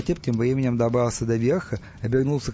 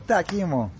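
higher-pitched malicious satisfaction; gloating; 5 semitones higher than usual. Acted. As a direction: relish someone's bad luck. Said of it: "злорадно засмеялся". (злорадно)

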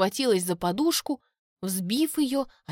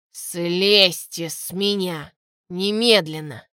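stern command; 2 semitones lower, 4 dB louder, slower than usual. A narrator's reading. Grumpy mage orders her off.

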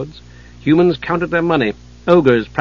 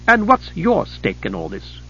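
pointed, higher question pressing for the truth; demanding; 5 semitones higher than usual. A narrator's reading. Goddess Chislev challenging the deal maker, demanding. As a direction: demand to know his motive. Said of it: "Chislev demanded".

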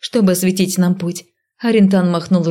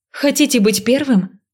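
nervous high call; 6 semitones higher than usual. A narrator's reading. Heroine shouting nervously.

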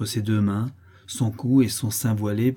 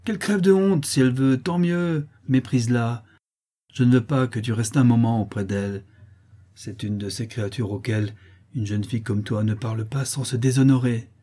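scornful mother; 2 semitones higher than usual. Acted. Mother scorns fallen girl.

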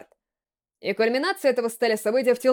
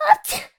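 cute sneeze; 5 dB louder than usual. A narrator's reading. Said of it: "Мило чихнула девушка".

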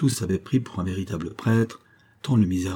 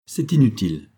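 lively; 4 dB louder than usual. Acted. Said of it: "reprit Charles avec vivacité".

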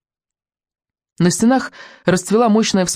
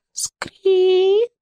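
creaking sound. A narrator's reading. Creaking gate in narration.

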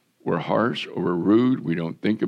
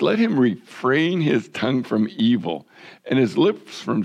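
raised, measured Bible reading; scripture reading; 2 semitones higher than usual. Acted. Pastor reading verses to his congregation, measured and raised. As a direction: read the verses out to the church.

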